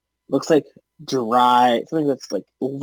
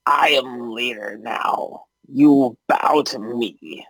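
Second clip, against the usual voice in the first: lightly voiced, slow goblin boss; slow, measured intimidation; commanding goblin; slower than usual. Goblin claims leadership over the others, slow commanding voice.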